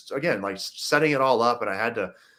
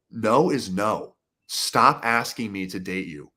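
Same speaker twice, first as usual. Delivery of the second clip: slow, deliberate, fed-up no; firm agitated refusal; slower than usual. Retold or imitated. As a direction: spell out the no word by word, losing patience. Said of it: "I finally started to get agitated".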